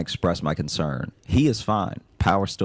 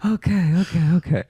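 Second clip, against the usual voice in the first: recovering from laughter; 11 semitones higher than usual. Real, not acted. Host gathers herself after laughing.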